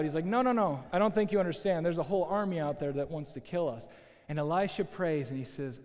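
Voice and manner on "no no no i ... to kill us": starting to freak out. Acted. Servant warning Elisha of the army, mild mock freak-out. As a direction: lightly act out a flustered servant. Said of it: "Gehazi's starting to freak out".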